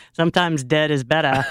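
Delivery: Fred Gwynne impression. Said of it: "do the Fred Gwynn accent".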